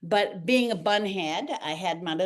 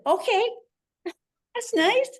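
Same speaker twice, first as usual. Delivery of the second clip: giddy laughing okay. Retold or imitated. Dancers thrilled at being placed in class, high laughing. Retelling delighted acceptance.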